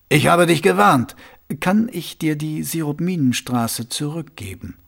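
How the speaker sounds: sly, confiding ruler asking a pointed question; Vetinari voice. Acted.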